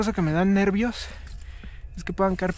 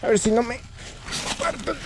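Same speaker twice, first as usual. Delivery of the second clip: strained nervous voice; 4 semitones higher than usual. Real, not acted. Climbing a risky ledge.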